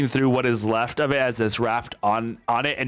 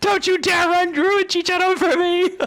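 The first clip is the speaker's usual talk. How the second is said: yelling, higher and louder; 5 dB louder than usual. Retelling what another player just yelled: imitating someone yelling. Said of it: "Drummie just yelled".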